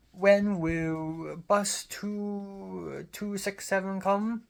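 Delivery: imitated old woman, high Cantonese-accented English; old lady calling out with a Cantonese accent. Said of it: "that's a Cantonese English accent".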